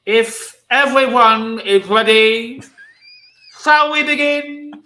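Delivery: Princess Bride clergyman. Acted. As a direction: play the impressive clergyman. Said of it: "can you do this guy as if he's in The Princess Bride".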